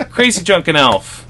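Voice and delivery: high, loud, slow channel plug; proud, drawn-out name drop; happy plug. Shown as a demonstration. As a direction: announce it with put-on pride. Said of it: "I'm happy about my YouTube channel".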